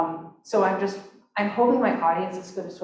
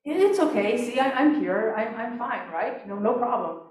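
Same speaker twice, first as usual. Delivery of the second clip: the speaker brushing it off; 5 semitones higher than usual. Retold or imitated. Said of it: "He tells the story of".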